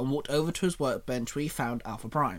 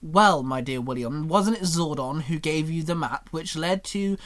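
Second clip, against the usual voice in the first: cheeky; 3 dB louder than usual. Acted. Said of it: "with a cheeky grin".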